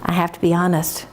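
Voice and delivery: low wolf voice owning up; lightly voiced low, hesitant wolf; confessing wolf. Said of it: "And the wolf says".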